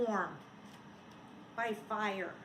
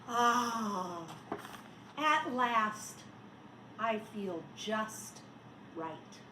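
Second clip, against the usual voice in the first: content sigh; 4 semitones lower, much slower than usual. Acted. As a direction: settle into contentment. Content snowman at the end.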